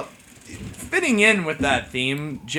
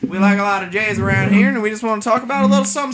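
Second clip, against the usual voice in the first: hillbilly host; 3 semitones higher than usual. Acted. Plays hillbilly host Jeremiah.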